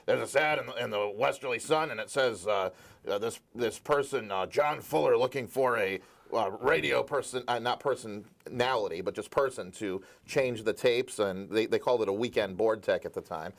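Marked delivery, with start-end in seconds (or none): 0.1-11.2 grandfather's raspy voice. Retold or imitated. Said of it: "he still has a raspy voice".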